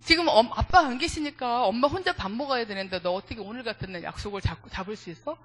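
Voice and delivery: mock scolding, loud at first, then easing off; a retold motherly telling-off, only mildly heated; angry mother imitated. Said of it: "막 이렇게 막 화를 내고".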